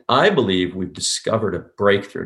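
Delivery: "I" and "breakthrough" hit, "discovered" soft; soft DISCOVERED, hard BREAKTHROUGH. Shown as a demonstration. Coach modelling the sales line, "discovered" soft, "breakthrough" hard. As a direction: punch "I", ease through "discovered", punch "breakthrough". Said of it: "Notice discovered is soft".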